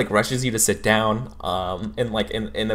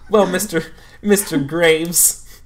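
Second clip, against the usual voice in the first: drawn out; 8 semitones higher, 4 dB louder, slower than usual. Acted. Counselor savoring the name.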